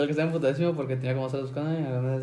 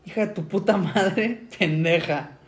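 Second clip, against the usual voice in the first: mock yell, higher and drawn out; retold angry shout; 4 semitones higher, slower than usual. Dad yells at daughter in the plaza, mock shout. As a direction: stretch out a dad's insult, half-laughing. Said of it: "escucho con gritos".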